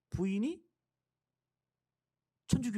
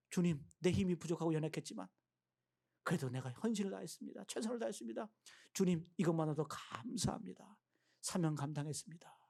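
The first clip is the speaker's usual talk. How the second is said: humble prayer; 3 semitones lower, 5 dB quieter than usual. Acted. Voicing a faithful believer's prayer.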